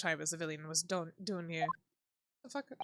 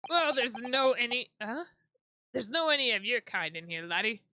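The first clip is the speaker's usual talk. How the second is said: a lightly done Scottish governor, a bit louder; gruff Scottish accent; 2 semitones higher, 4 dB louder than usual. Acted. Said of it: "What is this accent?".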